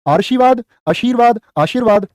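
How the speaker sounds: आशीर्वाद said slowly with a clear र before व; careful pronunciation demo. Shown as a demonstration. Hindi teacher drills the class on the correct pronunciation. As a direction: spell out आशीर्वाद sound by sound, stressing the र. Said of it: "अब देखो रे को बोलो सिर्फ".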